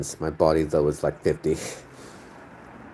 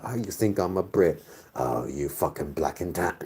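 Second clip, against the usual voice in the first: lightly put-on Irish accent; a touch of indignant Irish. Offended Irish person answering the streamer, light Irish accent. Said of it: "if it's an Irish person thinking that".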